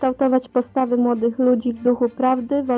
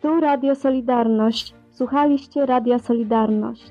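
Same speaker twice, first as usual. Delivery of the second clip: archival underground radio recording; like a worn cassette broadcast. Real, not acted. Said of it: "Archiwalne nagranie".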